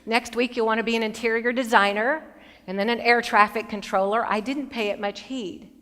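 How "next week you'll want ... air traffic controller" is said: patronizing. Retold or imitated. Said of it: "I patted her on the head and I said".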